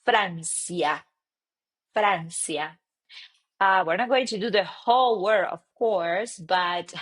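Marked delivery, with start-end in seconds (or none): 0.0-2.8 Francia with a tapped r, ahn-see-a; Spanish pronunciation. Shown as a demonstration. Teacher modelling country names, careful Spanish pronunciation. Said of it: "you will say".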